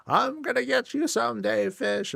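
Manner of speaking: high, put-on voice for the little gnome; taunting gnome. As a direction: squeak out a cartoon threat to the fish.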